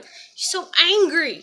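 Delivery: high, loud mocking singsong; taunting voice. Kid taunting her in a high loud singsong voice. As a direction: taunt her like a schoolyard bully. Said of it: "You know, like".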